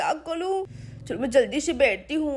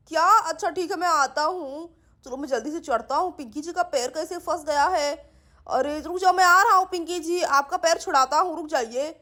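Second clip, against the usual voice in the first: helpful Siddharth. Acted. Siddharth climbing to free Pinky's foot, helpful. Man figure going to help.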